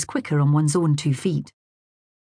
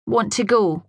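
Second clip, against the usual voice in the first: put-on sulky child; 6 semitones higher than usual. A narrator's reading. Boy refusing to kiss mother.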